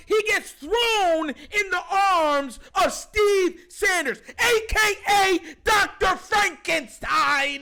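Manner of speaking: slow, loud furious shout; angry shout. Real, not acted. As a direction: bellow the accusation. Ranting fan outburst.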